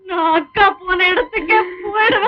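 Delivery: tearful, despairing wail; crying. Acted. Woman tells family she will follow her dead sister, crying. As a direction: sob the words out in despair. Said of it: "ஏன் பூர்ணா அழுகுற?".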